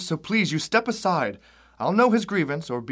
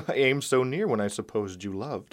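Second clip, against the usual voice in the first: laughing; 4 semitones lower than usual. Acted. Benvolio laughs at Romeo's confession.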